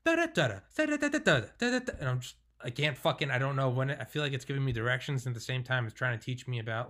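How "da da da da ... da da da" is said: high sing-song robotic babble; mock computer voice. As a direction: imitate a droning text-to-speech voice. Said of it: "listening to it in the Siri voice".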